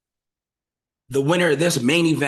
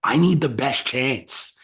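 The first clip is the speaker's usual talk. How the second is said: pleading Finn; 3 semitones higher than usual. Retold or imitated. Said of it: "He's like".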